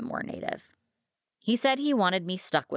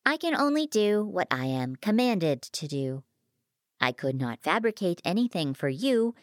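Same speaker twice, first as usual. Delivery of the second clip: lightly voiced formal machine, explaining its limits; precise, polite machine with lifted emphases; courteous, sly fabricator; 3 semitones higher than usual. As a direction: explain the rules with measured courtesy.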